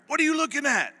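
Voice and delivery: high, loud barked challenge; drill sergeant yell. Retold or imitated. Drill sergeant barks at the recruits, a loud high yell.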